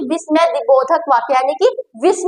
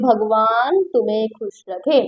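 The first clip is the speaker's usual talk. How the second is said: blessing; 6 semitones lower, slower than usual. Shown as a demonstration. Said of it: "मैं कह रही हूँ".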